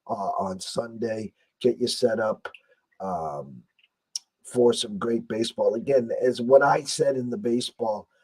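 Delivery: lost voice, rough and worn; hoarse voice. Real, not acted. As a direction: speak through a hoarse throat. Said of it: "As you can tell, I have no voice".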